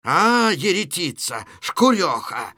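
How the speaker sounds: mild, drawn-out angry cry; mock shrieking. Kostylyov cursing amid a household brawl, half-hearted shriek. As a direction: curse her in a restrained acted yell. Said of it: "визгливый крик Костылёва".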